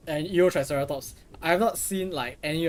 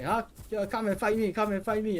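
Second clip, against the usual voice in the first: imitated Asian accent; 7 semitones higher than usual. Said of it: "when he mimic the Asian accents".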